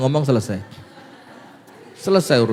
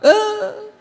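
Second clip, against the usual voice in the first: mock angry wife. Wife scolding her husband over a bad melon, mildly mock-angry. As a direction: lightly scold like an annoyed wife. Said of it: "maka istrinya marah".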